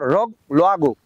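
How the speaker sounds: word said in reverse; backwards speech. Shown as a demonstration. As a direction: read the word backwards, syllable by syllable. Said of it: "গোয়াল ঘরে উল্টো করে বলি".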